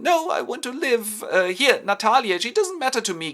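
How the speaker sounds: very high, loud mock wail; hysterical begging. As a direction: beg for life in hammed-up panic. Homburg begs hysterically.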